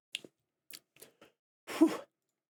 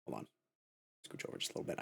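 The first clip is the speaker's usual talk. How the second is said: whispering; 17 dB quieter, much faster than usual. Real, not acted. Off-mic aside while adjusting.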